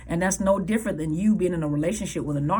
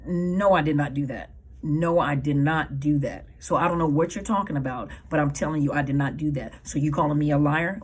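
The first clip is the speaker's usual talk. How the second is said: firm denial; 3 semitones lower than usual. Acted. Acted denial of the accused.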